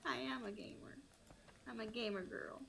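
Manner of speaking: soft pleading anime schoolgirl. Real, not acted. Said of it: "like an anime high school girl".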